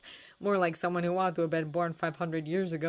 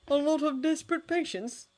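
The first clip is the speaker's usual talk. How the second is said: lightly; 10 semitones higher than usual. A narrator's reading. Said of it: "said John lightly".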